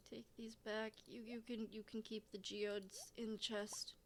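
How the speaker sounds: unvoiced murmur to self; hushed whisper while sorting items. Real, not acted. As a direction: whisper it under the breath. Quiet aside in game.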